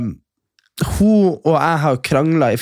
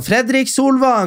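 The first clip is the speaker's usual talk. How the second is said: mock yell; 8 semitones higher, slower than usual. Drunk woman yelling names.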